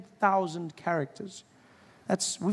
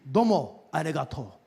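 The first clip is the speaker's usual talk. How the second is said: strong thanks. Shown as a demonstration. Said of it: "everything in Japanese is strong".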